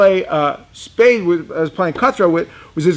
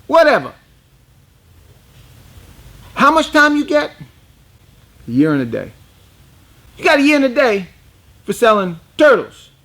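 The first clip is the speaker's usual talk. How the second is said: Pompano Joe voice; 7 semitones higher than usual. Retold or imitated. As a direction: play Joe pitched way up. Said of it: "he called me by my name all the time".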